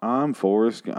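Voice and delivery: a hint of Forrest Gump, slow and simple; drawn-out, lightly voiced Forrest Gump; understated Gump voice; Forrest Gump impression. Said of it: "I was doing Forrest Gump".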